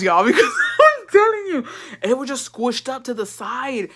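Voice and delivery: high, loud squeal of laughter; laughing hard. Real, not acted. Telling y'all what mom stared at, cracking up. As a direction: break up laughing mid-sentence.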